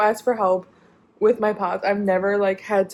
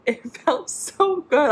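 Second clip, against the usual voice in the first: relieved; 6 semitones higher than usual. Real, not acted.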